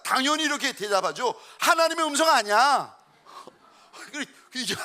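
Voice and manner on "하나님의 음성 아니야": mother's denial. Retold or imitated. Mother firmly denies.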